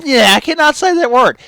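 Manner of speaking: loud, high outburst at own fumble; exasperated. Real, not acted. Reader fumbles a word, exasperated.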